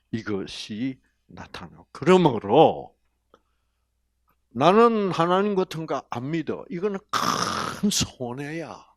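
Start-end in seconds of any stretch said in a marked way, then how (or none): none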